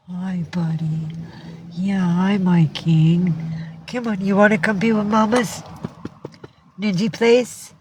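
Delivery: sweet, coaxing pet talk. Real, not acted. Owner calling her cat to come over, coaxing. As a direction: coax a cat over, pitch lifting as you go.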